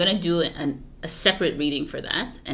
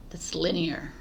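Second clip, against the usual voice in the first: whisper; 7 dB quieter than usual. Real, not acted. Muttering aside about dates.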